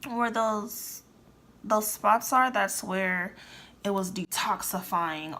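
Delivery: talking through a stiff tight mask; tight face mask. Real, not acted. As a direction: lips barely moving under the mask. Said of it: "Oh, I can't talk. This sh-, mask is tight".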